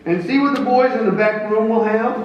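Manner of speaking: high, loud, offhand general voice; careless general. Acted. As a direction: wave them in carelessly. Grant ordering aide.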